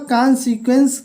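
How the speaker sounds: कॉन्सिक्वेंस run together as one word; joined-up reading. Shown as a demonstration. Teacher shows how the long word reads, कॉन्सिक्वेंस joined up. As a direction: read कॉन्सिक्वेंस whole, its syllables joined. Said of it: "उनको ऐसे पढ़ते हैं".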